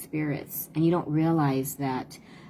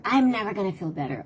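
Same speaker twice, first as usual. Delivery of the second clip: higher, fast mock pout of an upset kid; sulky child; 5 semitones higher, faster than usual. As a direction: toss back a kid's stubborn retort.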